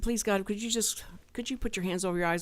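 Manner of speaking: hushed whisper to God; whispered plea to God; whispered prayer. Retold or imitated. Retold private prayer to God.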